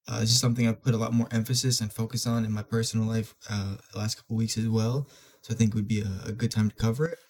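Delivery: stuffy, congested nose voice; blocked nose. Real, not acted. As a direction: talk through a blocked nose. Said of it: "sorry if my voice sounds a little different".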